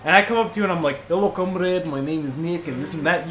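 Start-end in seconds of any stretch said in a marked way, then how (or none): 1.1-3.3 put-on Russian accent. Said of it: "you will assume I'm Jewish / Russian".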